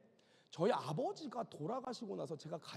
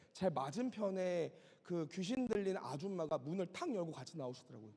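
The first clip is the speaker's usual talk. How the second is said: usual speaking voice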